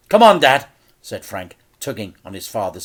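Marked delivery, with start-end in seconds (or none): 0.1-0.7 louder, higher urging; urgent plea. Acted. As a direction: pull Dad away now. Frank urging his father.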